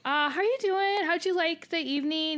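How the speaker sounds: beam at him, drawing out the hi; eager greeting. Retold or imitated. Retelling her eager greeting by name.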